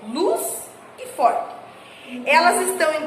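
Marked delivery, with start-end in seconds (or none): 0.1-1.5 Luz e forte drawn out slowly, Luz pitched higher; stressed monosyllables. Shown as a demonstration. Teacher pointing out stressed words to pupils, slow and high. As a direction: stretch Luz and forte with weight. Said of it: "nós falamos ela com mais intensidade".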